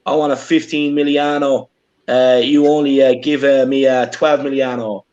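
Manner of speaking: hammed-up fake Italian accent, slow; clumsy mock Italian accent; bad Italian accent. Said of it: "my Italian accent isn't great".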